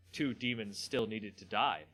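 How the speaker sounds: measured fantasy story reading; a lightly dramatised story read for the viewers; story narration. Acted. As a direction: read the tale to your viewers, steady and dramatic. Reads the Magic story aloud.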